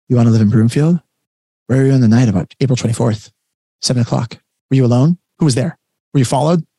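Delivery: hammed-up police interrogation; mock interrogator. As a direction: grill them like a suspect, one question at a time. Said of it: "it becomes an interrogation".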